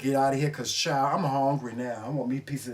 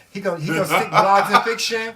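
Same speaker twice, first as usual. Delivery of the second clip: laughing teasingly through the words; giggly and loud, poking fun; 5 semitones higher, 8 dB louder than usual. Real, not acted. Laughs while teasing her husband.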